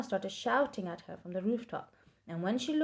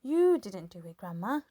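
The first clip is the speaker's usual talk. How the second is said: shouting; 8 dB louder than usual. A narrator's reading. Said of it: "George shouted back to her".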